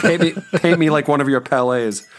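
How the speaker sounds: giggling through the words; laughing. Pretend. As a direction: laugh while saying it. Laughing parody line.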